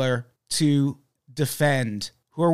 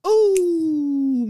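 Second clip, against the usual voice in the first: excited ooh; 12 semitones higher, 4 dB louder than usual. Acted. Mock fanfare for missing co-host.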